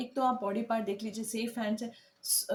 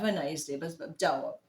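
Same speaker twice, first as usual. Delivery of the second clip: sarcastic send-off; 5 semitones lower than usual. Shown as a demonstration. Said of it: "फिर भी हम उसको बोल रहे हैं".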